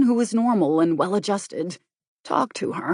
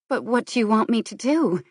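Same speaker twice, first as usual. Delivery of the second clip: troubled; 5 semitones higher, 4 dB louder than usual. Acted. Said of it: "Her voice was troubled".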